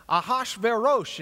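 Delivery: Ahashverosh said the Hebrew way, with a clear sh and a v; Hebrew pronunciation. Shown as a demonstration. Teacher shows the class the Hebrew name, carefully pronounced. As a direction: sound out Ahashverosh as the Hebrew original, not the English Ahasuerus. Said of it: "is the way we pronounced it".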